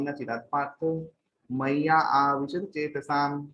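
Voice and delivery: measured Sanskrit scripture recital; verse recitation. Acted. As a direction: recite the verse in sustained, even phrases.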